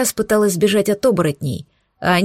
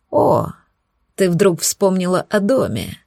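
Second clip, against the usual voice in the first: snide mocking. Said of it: "Ехидно рассмеялся оборотень".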